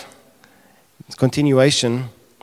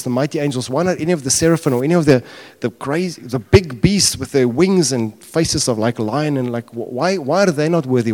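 higher, louder run of baffled questions; acted incredulity; 3 semitones higher, 4 dB louder than usual. Preacher voicing John asking why the lamb is worthy, incredulous. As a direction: keep hitting each "why" in mock disbelief.

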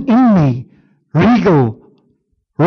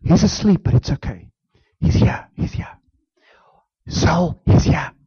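soothing self-talk; 4 dB quieter than usual. Shown as a demonstration. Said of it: "speaking to own soul".

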